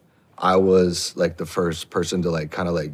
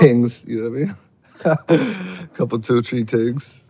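drawled Jamaican patois lilt; Jamaican accent; 4 semitones higher, slower than usual. Acted. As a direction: lay on the Jamaican accent slowly. Slipping into patois style.

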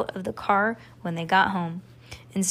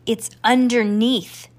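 slow, pressed excited exclaim; 2 semitones higher, 4 dB louder, slower than usual. Acted. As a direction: burst out with the discovery. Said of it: "exclaimed Max Ernest".

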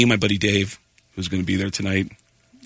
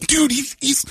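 flustered protest; slower than usual. Retold or imitated. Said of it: "And I go".

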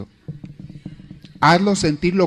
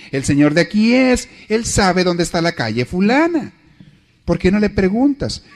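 higher, insistent wife pushing her husband to ask; a wife nagging her lost husband to stop and ask directions, pitched higher; 5 semitones higher than usual. Retold or imitated.

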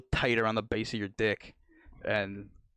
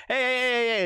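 high, loud mock challenge; squaring up; 12 semitones higher, 6 dB louder than usual. Patient squaring up to the doctor, high loud challenge. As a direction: call him out like you're ready to brawl. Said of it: "squared up with him".

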